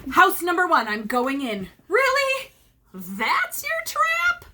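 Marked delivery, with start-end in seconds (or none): 1.9-4.5 high, scornful teasing voice; mocking leprechaun. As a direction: scoff at the flimsy trap. Leprechaun mocks trap.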